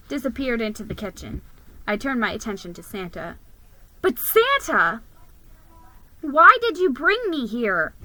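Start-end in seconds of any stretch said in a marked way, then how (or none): 4.0-7.9 higher, a bit louder, anxious; squeaky question. Acted. Mouse asks Santa why he is here, squeaking. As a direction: ask nervously in a little squeak. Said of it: "I squeaked".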